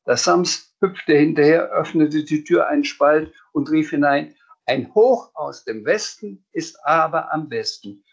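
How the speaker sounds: put-on lively read-aloud for children; animated children's book narration; story reading. A narrator's reading. Reads the Sams book aloud.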